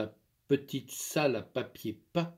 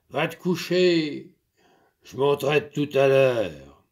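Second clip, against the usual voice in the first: lightly voiced farmer, firm and a bit louder; stern master; 6 dB louder than usual. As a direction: lay down the law to the servant. Master sends her to bed.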